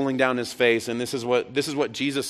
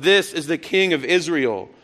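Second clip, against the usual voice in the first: higher, mildly raised call; retold crowd yell; 4 semitones higher, 4 dB louder than usual. Preacher voicing Jerusalem's people calling up, half yell. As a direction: proclaim it as a crowd's cry. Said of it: "would yell up".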